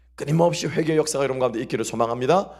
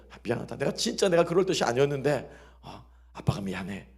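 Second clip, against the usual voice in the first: soft apology; 2 semitones lower, 4 dB quieter than usual. Retold or imitated. Father apologizing to child.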